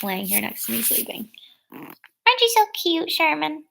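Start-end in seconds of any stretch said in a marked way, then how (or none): 1.7-3.6 much higher sing-song voice for the dog. Real, not acted. Cooing at her sleeping dog Sherman, high baby talk.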